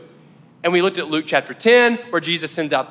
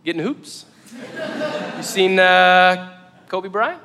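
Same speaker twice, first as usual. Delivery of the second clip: halting, awkward small talk with long pauses; awkward icebreaker; slower than usual. Retold or imitated. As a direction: imitate fumbling for an opener with a stranger. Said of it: "the segue is difficult".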